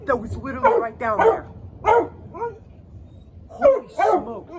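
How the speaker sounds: high, loud, shaken shouts of alarm; frightened shouting. Real, not acted. After lightning hits close by, high frightened shouts. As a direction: yell out in real fright at the strike.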